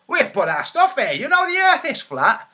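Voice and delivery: high, loud imitation of indignant protesters; loud mock outrage, jumping up in pitch. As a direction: protest shrilly in a hammed-up voice. Acts out flat-earthers answering police.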